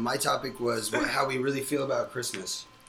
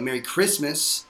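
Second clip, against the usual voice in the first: "Merry Christmas" drawn out slowly; imitating a slow, pointed "Merry Christmas"; pointed, negative emphasis; slower than usual. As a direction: lean slowly on "Christmas" as a correction. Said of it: "you put the wrong emphasis on the syllable".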